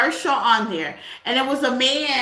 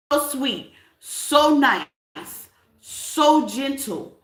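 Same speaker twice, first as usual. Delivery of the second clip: slow gentle repeat; much slower than usual. Shown as a demonstration.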